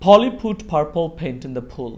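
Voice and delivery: very slow, word by word, airy f on Polly and purple; teacher models the tongue twister slowly. Shown as a demonstration. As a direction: drill it slowly for the kids. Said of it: "আমি প্রথমে বলবো".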